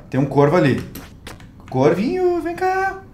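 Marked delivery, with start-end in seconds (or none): 1.7-3.0 high sweet call to an animal; cooing to a pet. Real, not acted. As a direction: coo to the little crow. Calling to a crow.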